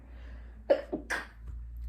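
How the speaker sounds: a sudden real sneeze; stifled sneeze into the hand; sneezing. Real, not acted. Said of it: "I'm gonna sneeze again".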